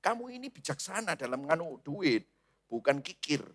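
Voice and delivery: soft flattering murmur; mild devilish whisper, coaxing. Acted. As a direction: hush it into the listener's ear. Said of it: "itu iblis bisik-bisik".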